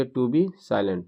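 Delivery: slow, word by word, stressing be; slow dictation. Shown as a demonstration. Teacher dictating the corrected phrase, slow and deliberate. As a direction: spell it out slowly for the class. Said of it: "to से जोड़ दिएगा".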